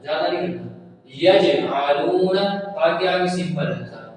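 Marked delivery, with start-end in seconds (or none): 1.2-2.4 slow یجعلون with a light bounce on the jeem; light qalqala. Shown as a demonstration. Teacher demonstrates the jeem, slow یجعلون with light qalqala. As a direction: give the ج in یجعلون a slight echo. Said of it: "کلکلا کرنا ہلکا سا".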